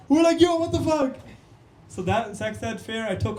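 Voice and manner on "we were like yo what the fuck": high, loud mock-horrified cry; loud high-pitched disbelief; shocked outburst. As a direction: exclaim it in hammed-up shock. Retold shocked classroom reaction.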